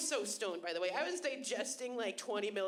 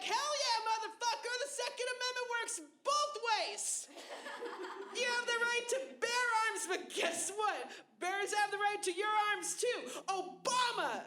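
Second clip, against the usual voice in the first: higher, whooping triumph; hyped up rant; 9 semitones higher than usual. Retold or imitated. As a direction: crow it like you just won. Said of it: "I'm all like".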